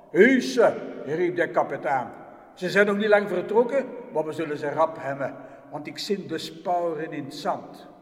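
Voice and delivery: loud, quick barked orders; the captain calling his soldiers after the tracks; captain shouting. Acted. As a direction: bark it at the troops, fast.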